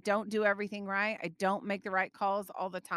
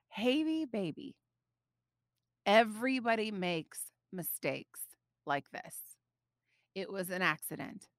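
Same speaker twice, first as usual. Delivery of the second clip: gentle reassurance. Retold or imitated. Mother comforting crying daughter.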